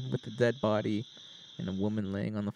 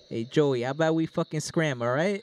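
louder, lightly voiced henchman; slightly raised henchman voice; 3 semitones higher, 3 dB louder than usual. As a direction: nudge a buddy to clear out, henchman style. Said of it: "they have a different voice".

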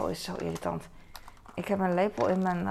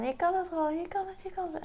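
higher, eager praise sinking into a whisper; gushing encouragement; 11 semitones higher than usual. Retold or imitated. Mother cheering her son on, high then whispered. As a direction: cheer him on, then breathe it.

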